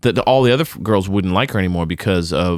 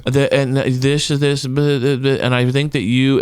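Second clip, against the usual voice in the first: mock flustered rambling; mock fumbling; 2 semitones higher than usual. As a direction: imitate someone fumbling for words. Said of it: "She's fumbling over words".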